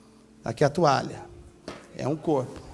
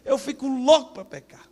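whining believer; 8 semitones higher than usual. Retold or imitated. Voicing a confused believer's complaint.

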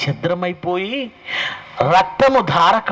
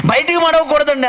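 high, puzzled "why not?"; surprised question; 8 semitones higher than usual. Retold or imitated. Preacher retelling his reply at the wedding meal, surprised. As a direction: ask it in plain surprise. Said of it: "అన్నాడు".

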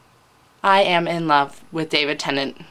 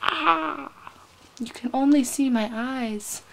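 mock emotional whimper; 6 semitones higher, 5 dB quieter, slower than usual. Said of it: "make me so emotional".

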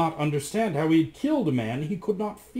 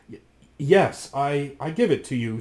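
grudgingly; 3 dB louder than usual. Acted. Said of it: "said Rasmus grudgingly".

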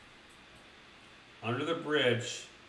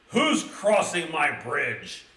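louder, slow, booming troll challenge; a troll guarding his bridge, roaring; 3 semitones higher, 6 dB louder, slower than usual. Acted. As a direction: roar it out slowly from under the bridge. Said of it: "he roared".

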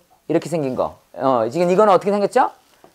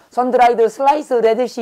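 higher-pitched Korean-accented English with added vowels; uncorrected Korean accent; 5 semitones higher, much slower than usual. Shown as a demonstration. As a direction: say it syllable by syllable in a labored Korean accent. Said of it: "발음이 교정 안 되면 빨리 말 못해요". (교정 안 된 한국식 영어 발음)

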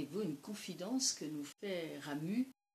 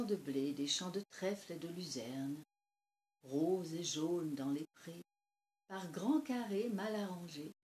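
measured poetry recital with pauses between images; poem reading; 6 dB louder than usual. Acted. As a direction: read verse aloud, letting each image settle. Reads a poem aloud. (lecture de poème posée)

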